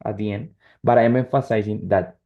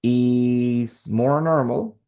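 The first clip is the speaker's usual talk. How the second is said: slow demo; much slower than usual. Shown as a demonstration. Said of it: "Let's say it's more normal".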